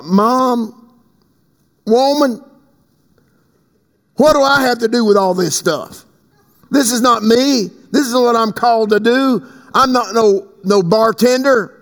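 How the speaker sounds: lightly acted protest to a mother; protesting son. Jesus objecting to his mother over the wine, protesting.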